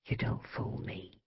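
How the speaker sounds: slow, barely audible mutter. A narrator's reading. Mother to her departed son, muttering slow and very soft. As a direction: mutter slowly under your breath. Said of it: "she muttered".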